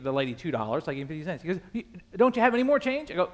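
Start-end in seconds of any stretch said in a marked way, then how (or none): 1.7-3.1 incredulous demand. Retold or imitated. Beggar pushes for more.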